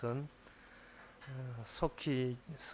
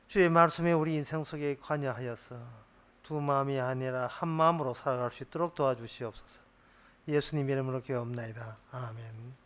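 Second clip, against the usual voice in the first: spoken prayer. Acted. Pastor opens with prayer.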